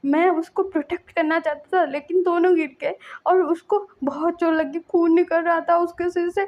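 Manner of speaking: put-on a small boy sobbing out what happened; lightly voiced crying child. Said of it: "बोल के वो रो रहा था बच्चा".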